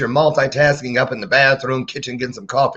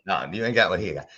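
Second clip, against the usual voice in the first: ordinary delivery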